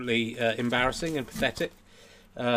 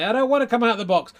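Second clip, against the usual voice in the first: high, loud, fast refusal; reluctant dummy; 9 semitones higher, 8 dB louder, faster than usual. Acted. Dummy refuses to leave the box, high loud protest. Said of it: "hide behind the lid".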